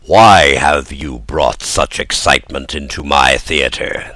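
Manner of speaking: a menacing ogre with a head cold. Acted. Fire Eater confronting Pinocchio, low ogre voice. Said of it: "with the voice of an ogre suffering from a cold".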